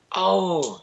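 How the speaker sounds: retold scream. Yogi in the kidney posture, retold scream. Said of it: "he screamed".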